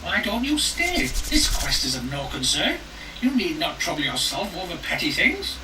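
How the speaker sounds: put-on a sly old hag tempting; coaxing old woman voice. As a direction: lure them in, old crone. The old woman lures them.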